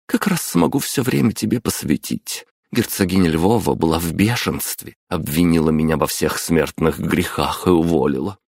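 lightly voiced chatty mother; a hint of a lively mom. Мама говорит с сыном. (лёгкий голос мамы)

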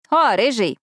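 good-natured. A narrator's reading. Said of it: "добродушно бросила Тори".

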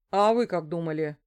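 lightly voiced detective, mildly outraged; indignant. A narrator's reading. Detective Andrey snaps back at the suspect, mildly indignant. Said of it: "возмущённо выдал Андрей".

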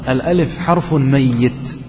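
"الألف حرف ميت" slow and weighty; teacher quoting scholars' rule to students, slow and weighty; quoted rule. Shown as a demonstration. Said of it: "يقول العلماء".

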